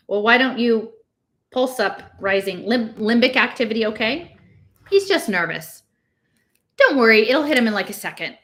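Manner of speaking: hurried staff. Acted. Staff talking over patient.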